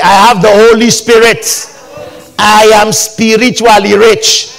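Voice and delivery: loud preacher's declaration; big, ringing pulpit confession; emphatic declaration. Real, not acted. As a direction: proclaim it boldly for the congregation to echo. Preacher leading congregation in declarations.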